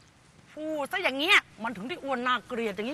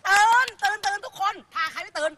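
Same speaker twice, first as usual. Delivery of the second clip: louder wake-up call to a class; rousing call; 3 semitones higher, 5 dB louder than usual. Acted. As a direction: rouse the sleepy pupils forcefully. Teacher rousing sleepy pupils.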